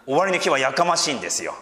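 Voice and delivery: preacher leaning into やかましい. Shown as a demonstration. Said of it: "天国はやかましいんですよ".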